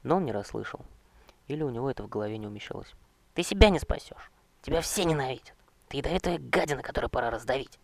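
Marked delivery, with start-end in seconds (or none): 3.3-7.8 hateful threat. Acted. Knight threatens the king.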